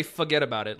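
"Forget about it" with no R; dropped R. Shown as a demonstration. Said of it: "like, without the R".

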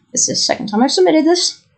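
retold polite irritation; mildly pissed off. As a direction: push back at the clerk, a touch exasperated. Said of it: "I did sound a little pissed off".

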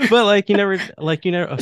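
sudden high, loud disbelief; you never did that?; disbelieving. Real, not acted. Brother can't believe his sister never played the game.

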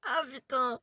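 out of breath from laughing; after laughing hard. Real, not acted. (essoufflée après un fou rire)

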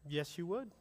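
a gentle, pointed aside; quiet. Shown as a demonstration. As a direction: drop it softly and let it land. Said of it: "softer repeat of the rebuttal".

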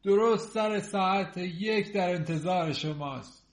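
slow, measured announcement; priest's slow formal address. Acted. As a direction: deliver the invitation ceremoniously, drawn out.

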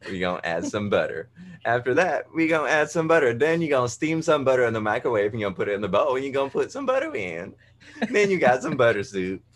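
lightly hammed TV chef voice, fast; a hint of a Paula Deen style host, quick; mock cooking show host. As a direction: rattle it off like a cheesy cooking host. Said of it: "I used to crack her up saying".

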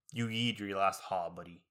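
slow, low-key villain threat; mock menace. Student fantasizing threatening professor, slow mock menace. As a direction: drag it out like a movie villain.

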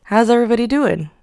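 fast, loud gremlin greeting; a hint of a happy gremlin. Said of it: "that was so scary".

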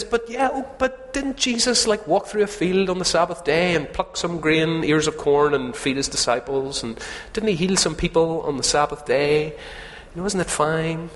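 put-on squeaky young husband arguing his case; pleading husband. Husband pleads with old woman, high and protesting.

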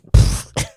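short breathy burst of suppressed laughter; snort of laughter. Pretend. Friend imagining mocking his mate, snorting laugh. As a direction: let a laugh puff out.

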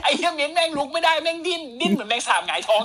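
amused and still cracking up; laughing while telling. Real, not acted. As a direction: laugh through the whole bit. Laughing through the cockroach story.

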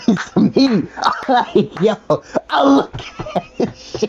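laughing. Real, not acted. Laughing at a sad plate.

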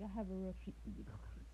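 a slight drop into the comic's voice; Dave Chappelle. Retold or imitated. Comedian promising a treat to concert crowd, lightly imitated low voice. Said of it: "he said in his real Dave Chappelle voice".

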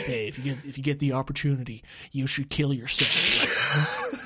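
Matthew McConaughey. Acted. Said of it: "a scene in True Detective where he goes".

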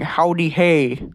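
lightly put-on cowboy greeting, drawn out; a hint of slow cowboy drawl. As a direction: stretch it out like a mock cowboy. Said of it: "make you talk like a cowboy".

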